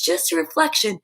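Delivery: trailing into a whisper; soft whispered ending. Real, not acted. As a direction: let it fade to a whisper. Dreamy whisper ending thought.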